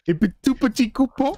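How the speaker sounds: mock French accent. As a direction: say it like a cartoon Frenchman. French joke again.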